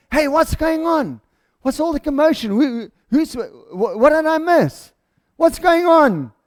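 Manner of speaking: high-pitched, puzzled questions; mildly baffled questioning. Acted. Older brother asking a servant about the commotion, a touch baffled.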